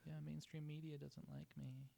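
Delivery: high, slow whine; mock whiny. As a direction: imitate a whiny complainer. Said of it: "he's just whiny".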